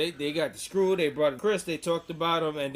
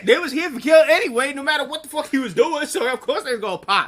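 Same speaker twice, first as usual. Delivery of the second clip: loud, high, laughing rant; cracking up about the crowd; laughing hype; 11 semitones higher, 10 dB louder than usual. Real, not acted. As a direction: cackle through it, pitched way up. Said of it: "crowd popped".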